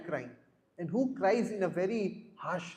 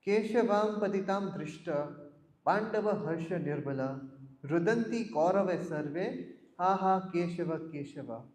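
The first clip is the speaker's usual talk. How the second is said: verse recitation. Shown as a demonstration. Teacher recites the Sanskrit verse to the class, chanting. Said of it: "Tell me if you've heard of it".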